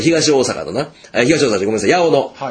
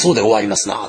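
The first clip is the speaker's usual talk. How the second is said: demonstrated Semba merchant lilt, lower pitched; old Semba dialect; 4 semitones lower than usual. Shown as a demonstration. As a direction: say it in old Osaka Semba speech. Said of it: "船場の言葉って". (船場言葉の実演)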